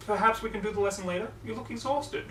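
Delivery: high, loud dismayed Rarity voice; concerned Rarity. Acted.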